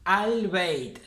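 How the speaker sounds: 'Al-Beit' with the L sounded; full lunar article. Shown as a demonstration. Teacher gives a lunar example, clear L in 'Al-Beit'. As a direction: pronounce the whole 'Al' in 'Al-Beit'. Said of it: "se lee al".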